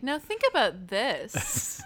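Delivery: mock professor. Friend mimics a psych professor, slow and pointed. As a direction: play a first-year psych professor.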